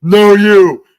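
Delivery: high, loud snap back; loud retort. Retold or imitated. Comic fires back at Helen. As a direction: throw it right back. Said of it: "I go".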